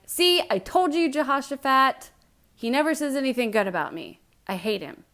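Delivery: high, loud, petulant complaint; hammed-up whiny Ahab tattling to Jehoshaphat; whiny king. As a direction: sulk like a spoiled king.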